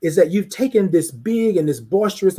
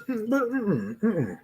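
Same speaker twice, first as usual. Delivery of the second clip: mock disapproval; 3 semitones higher, 9 dB quieter, slower than usual. Acted disapproval after second compliment.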